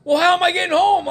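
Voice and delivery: high laughing question; laughing mock despair; laughing plea. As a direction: laugh through the complaint. Stranded, laughing at himself.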